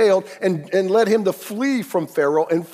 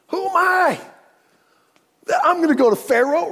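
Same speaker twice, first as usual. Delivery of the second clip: high, loud disbelieving Moses; incredulous Moses; 8 semitones higher, 5 dB louder than usual. Acted. Preacher voicing a doubting Moses, high and incredulous. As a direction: play Moses balking at God's call.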